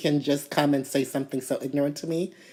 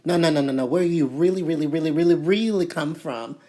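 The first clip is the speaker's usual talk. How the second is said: mock insistent doubt. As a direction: drag out the really come from. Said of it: "they look at you like".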